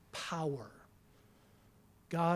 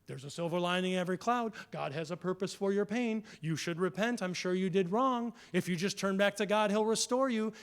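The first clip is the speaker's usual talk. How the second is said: glib platitudes; faster than usual. Retold or imitated.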